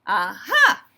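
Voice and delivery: loud cry of discovery; triumphant exclamation. A narrator's reading. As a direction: pounce on it with a loud second syllable. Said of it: "they cried".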